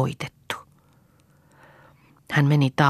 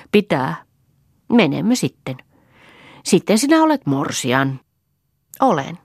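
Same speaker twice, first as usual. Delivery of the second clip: put-on higher, light child voices; childlike voices, innocent and curious; 5 semitones higher, 3 dB louder than usual. A narrator's reading. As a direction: play two small children chatting sweetly. Children talk about marriage.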